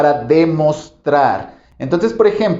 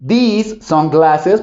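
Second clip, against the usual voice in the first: "these sunglasses" drawn out very slowly; slow demonstration; 3 semitones higher, much slower than usual. Shown as a demonstration. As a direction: show the glasses slowly. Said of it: "porque si se fijan son varios". (despacio, mostrando los lentes)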